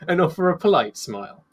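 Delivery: "polite" pointedly lifted, then dropping away; stress on polite. Acted. Narrating her contained disdain for him, "polite" pointedly emphasized. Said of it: "Emphasis on polite".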